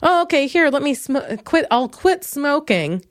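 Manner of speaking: usual speaking voice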